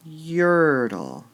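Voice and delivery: Yertle with a long falling line. Shown as a demonstration. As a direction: stress YER and let Yertle fall. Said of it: "they might need a little help".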